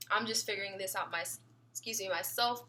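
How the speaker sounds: talking through hiccups; suppressing hiccups. Real, not acted. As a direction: hiccup breaks the words. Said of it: "I just got the hiccups".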